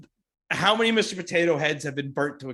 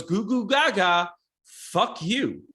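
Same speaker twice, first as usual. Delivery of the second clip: put-on baby talk; 4 semitones higher, much slower than usual. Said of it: "he goes".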